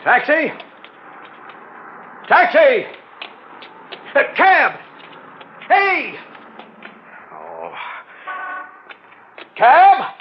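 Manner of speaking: high, loud shouting for a cab; calling out. Acted. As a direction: yell across the street. Calling cabs in the street.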